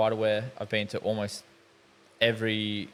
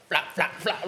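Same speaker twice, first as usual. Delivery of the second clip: higher-pitched flap-flap footstep noise; imitated flapping; 6 semitones higher than usual. Telling a mate how the Crocs sounded, imitated flapping. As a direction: imitate Crocs slapping as someone runs.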